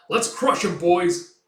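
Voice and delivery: cocky leader cheering on; rallying cry. Acted. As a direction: pump up the crew. Leader rallies his men.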